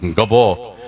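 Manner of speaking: low, dragged-out stammering answer; a stuttering simpleton slowly gets his name out; slow dim stammer. Retold or imitated. To the nurse, Gabho answers his name in a low stammer.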